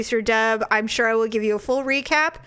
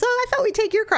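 mock husband; 11 semitones higher, much faster than usual.

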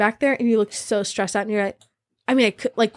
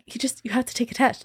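1 whisper; 6 dB quieter than usual. Retold or imitated.

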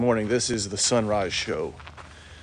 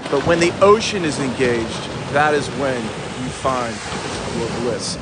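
lofty ocean sermon with swooping emphasis; grandiose preaching. Acted. Surfer preaching the ocean's bliss to viewers, grandiose.

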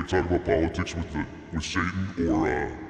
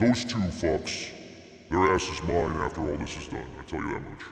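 Satan voice. Acted. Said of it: "Just because I'm Satan".

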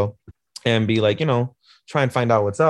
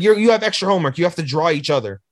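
scolding teacher; 7 semitones higher, faster than usual. Retold or imitated. Teacher orders extra homework as punishment.

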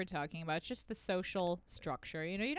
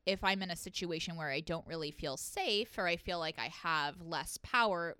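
ordinary talk

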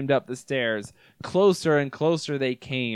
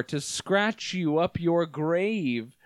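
slow creature voice; much slower than usual. Acted. Creature answers.

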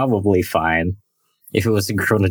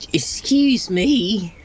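whispered; 12 semitones higher, much slower than usual. Acted. Stunned reaction to child.

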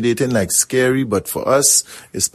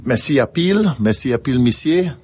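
thanks in a local French Creole twang; 4 semitones higher than usual. Shown as a demonstration. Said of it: "I will say it in my local twang".

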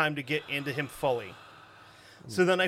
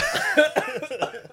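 choking cough; coughing on iced tea; coughing fit; 11 semitones higher, 4 dB louder than usual. Real, not acted. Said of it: "you heard all that coughing".

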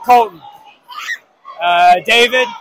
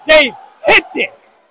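calling out; 3 semitones higher than usual. Real, not acted. Urging a player at the line.

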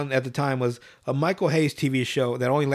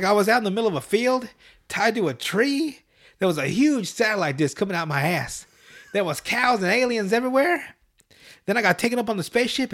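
put-on high kid voice telling a dream; Cartman voice; 5 semitones higher than usual. Cartman telling the boys his nightmare, high. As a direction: tell the nightmare like a whiny kid.

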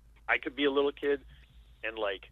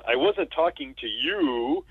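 deadpan retort; 6 semitones higher, 4 dB louder, much slower than usual. Retold or imitated. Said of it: "Chevy Chase says".

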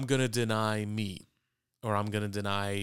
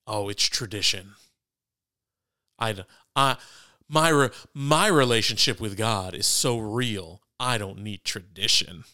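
sarcastic. Acted. Co-host parodies believers who spurn tradition, sarcastic. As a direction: play a self-satisfied believer with heavy sarcasm. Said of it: "didn't hear the sarcasm in my voice".

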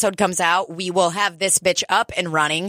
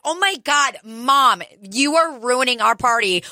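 mock whining teen complaint; embarrassed daughters; 3 semitones higher than usual. Co-host voicing girls whose mom ruins their party, mock-exasperated.

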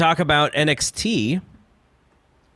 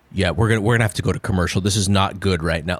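serious announcer; 5 semitones lower, much faster than usual. Retold or imitated. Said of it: "that kind of Morrow".

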